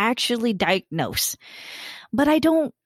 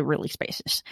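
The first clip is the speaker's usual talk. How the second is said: unvoiced whisper, much softer; 6 semitones lower, 6 dB quieter than usual. Real, not acted. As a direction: breathe the words out, barely voiced. Trailing off about her house.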